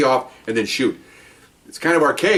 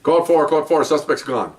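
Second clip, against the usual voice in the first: mildly raised announcing call; retold PA yell; 4 semitones higher, slower than usual. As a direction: relay it like a police radio call. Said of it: "he yells out on the P A system".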